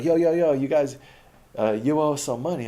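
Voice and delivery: put-on high, loud pushy call of a street kid; imitating a hustler kid shouting a demand. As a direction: call him out for the money. Kids demanding money, voiced.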